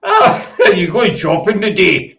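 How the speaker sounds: Scottish with a laugh in it; Scottish accent. Shown as a demonstration. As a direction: demonstrate Scottish for a learner, amused. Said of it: "say it in a Scottish accent".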